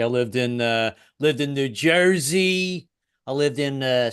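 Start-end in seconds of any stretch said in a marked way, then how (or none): 1.5-2.9 New Jersey accent, drawn out slowly. Shown as a demonstration. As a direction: stretch the state's name in a Jersey accent. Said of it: "why I like accents so much".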